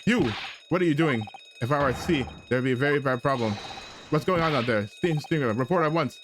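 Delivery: shouting crewman. Acted. Crewman yelling to find out what's going on, loud. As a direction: yell down the corridor like an alarmed sailor.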